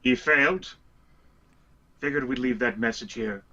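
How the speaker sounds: a casual in-character dismissal; dismissive in character. Acted. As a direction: shrug off the failure, lightly. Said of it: "Jerigov points a thumb back at Nye".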